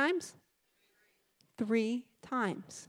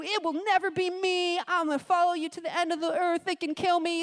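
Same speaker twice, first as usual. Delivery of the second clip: mock boastful Peter; 6 semitones higher than usual.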